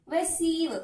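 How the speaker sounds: loud "Receive" landing on CEIVE; stress on second syllable. Shown as a demonstration. Teacher answers how to pronounce the verb, "Receive" stressed on ceive. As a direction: punch the second half of "Receive". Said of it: "How should you pronounce?".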